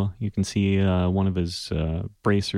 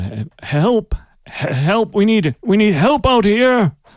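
very high, rising, stammering shout; 13 semitones higher, 8 dB louder than usual. Voicing a weakened fighter who calls for help: shouting for help. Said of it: "he starts to shout".

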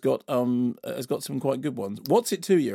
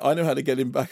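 ordinary talk, nothing marked

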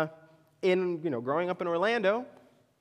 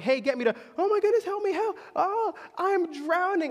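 very high, rising, frightened cries, acted out; 11 semitones higher than usual. Retelling calling out to a man who only watched and did nothing, acting out scared cries for help. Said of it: "I become scared, very scared".

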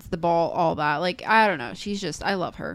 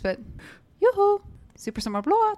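put-on Scandinavian accent, pitched much higher. Repeating the bit for someone who asked if the accent was okay, in an Oaken voice, Scandinavian accent. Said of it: "I love your accent".

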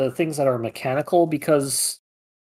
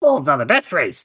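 put-on fantasy kobold creature voice. Showing off your kobold voice right after doing another character: kobold voice. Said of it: "That's my kobold voice".

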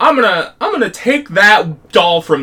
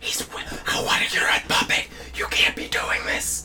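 very hushed, frantic, panicked whisper-scream. Retelling a scary book scene when asked: imitating Chris whisper-screaming. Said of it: "whisper scream right now".

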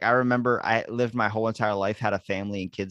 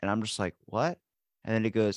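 usual speaking voice

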